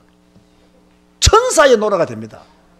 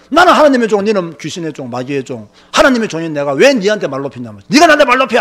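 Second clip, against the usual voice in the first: retold shouting; 3 semitones lower than usual. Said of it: "고함을 질렀죠". (고함치며 맞받아친 말을 재연)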